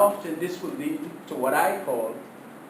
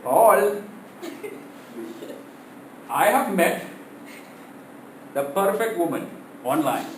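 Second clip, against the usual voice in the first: excited. Retold or imitated. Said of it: "came running to me all excited".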